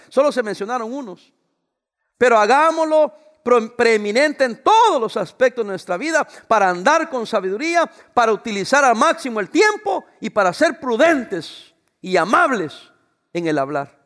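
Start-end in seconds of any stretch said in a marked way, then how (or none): 2.2-14.0 louder preaching; raising the voice while preaching; raised voice. Real, not acted. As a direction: push it out to the whole congregation. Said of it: "estoy gritando, alzando la voz".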